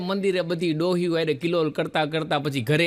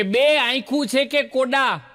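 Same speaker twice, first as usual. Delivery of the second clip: a mother-in-law's sharp, raised taunt, higher; mock taunt; 5 semitones higher than usual. Mother-in-law taunts bride over stones in khichdi, raised mock scolding. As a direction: scold the bride, pitch up and drag the first line. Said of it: "ટોણો મારવાની તૈયારીમાં".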